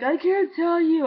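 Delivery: high, drawn-out mock wail; retold tearful plea. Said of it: "I started crying".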